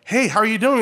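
high, loud American-accented greeting. Shown as a demonstration. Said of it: "speaking to someone with an American accent".

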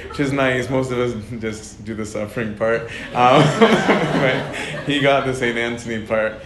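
laughing. Real, not acted. Laughing about the saint's visit.

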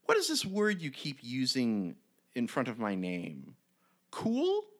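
light goblin voice, delighted at its new name; goblin naming himself. Retold or imitated. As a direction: puzzle over the word, then crown yourself Cool. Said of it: "And the goblin is like".

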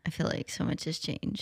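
whispered, murmured along. Real, not acted. Cohost whispering along as the host talks. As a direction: mouth it along quietly.

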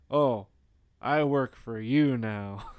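slow mock-submissive echo; Blackula. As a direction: play a servant slowly accepting his orders. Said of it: "And then Blackula's like".

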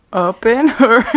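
playful singsong on "her"; cheeky repeat. Shown as a demonstration. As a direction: lean into the innuendo of "her". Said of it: "too embarrassing to say".

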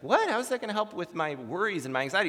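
mildly incredulous, rushing the question; bewildered patient. Retold or imitated. Woman questioning psychologist's two-word cure, bewildered. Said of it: "she looks bewildered at first".

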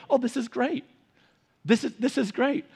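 husband mimicking wife's cheer; imitating his wife. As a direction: lightly gush over how great it is. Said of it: "my voice for her".

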